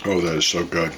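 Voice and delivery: talking with a mouth full of food. Real, not acted. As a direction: speak through a bite of cheesecake. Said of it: "I'm talking with my mouth full".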